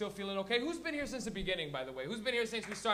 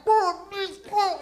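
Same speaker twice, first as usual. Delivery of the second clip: high, loud, slurred hollering; distant fan cheering; 10 semitones higher, 12 dB louder, much slower than usual. Acted. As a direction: whoop like fans in the background. Fans yelling in the back.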